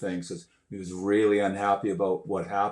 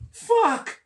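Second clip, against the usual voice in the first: much higher, laughing astonished cry; shocked realization; slower than usual. Retold or imitated. Spotting the famous drummer onstage, laughing shock. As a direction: blurt it out in disbelief. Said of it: "I looked and I went".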